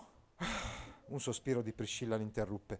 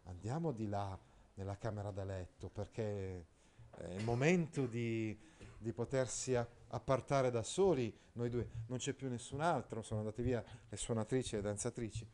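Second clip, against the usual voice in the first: Priscilla's hidden meaning; 3 semitones lower, 5 dB quieter than usual. Retold or imitated. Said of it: "lei voleva intendere".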